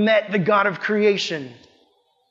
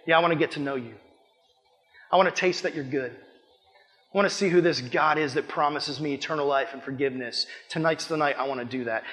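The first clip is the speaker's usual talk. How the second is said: quiet sincere prayer; 4 semitones lower, 5 dB quieter than usual. Acted. Listener's quiet prayer voiced.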